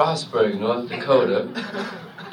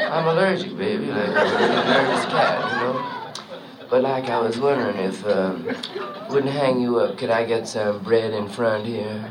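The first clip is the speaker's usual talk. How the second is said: hipster jazz trumpeter; 5 semitones lower than usual. Acted. Hip trumpeter answers the bandleader, low and laid-back. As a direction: lay back and jive like a hip musician. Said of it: "the new trumpet player".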